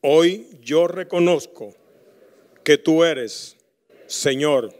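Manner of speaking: slow, measured prayer for the church to repeat; earnest congregational prayer; leading prayer. Acted. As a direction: pause so the people can repeat each phrase.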